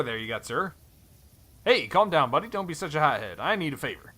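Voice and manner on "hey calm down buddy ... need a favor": put-on lightly drawled cowboy accent, louder at the start; a hint of a Western cowboy accent. Stranger Helm greets Thorn in a light cowboy accent. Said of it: "he's got, like, a cowboy accent".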